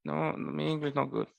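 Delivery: put-on apologetic broken-English foreign accent. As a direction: lightly mimic a foreigner with little English. Mimicking a non-English speaker.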